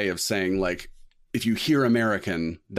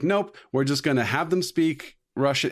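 breezy mock decision; 7 semitones higher than usual. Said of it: "And it's like".

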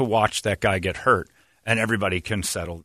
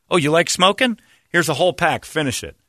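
stern dad; 6 semitones higher, 4 dB louder than usual. Retold or imitated. Dad punishing with cigarettes.

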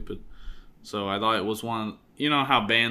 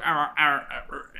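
growled guitar noise; 3 semitones higher than usual. Shown as a demonstration. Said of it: "same noise twice".

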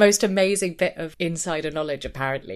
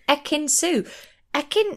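baffled echo; 7 semitones higher than usual. Retold or imitated. Puzzled repeat of the name.

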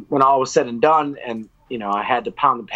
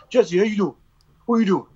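upbeat manager on phone; 7 semitones higher than usual. Retold or imitated.

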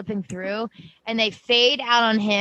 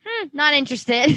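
higher, playful brush-off; retold dismissal; 4 semitones higher than usual. Retelling a reaction to the Bible-looking thing, playful dismissal. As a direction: toss it off as a mock refusal.

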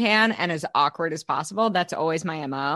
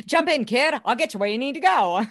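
put-on old movie cabbie; 4 semitones higher than usual. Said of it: "now the voice is back".

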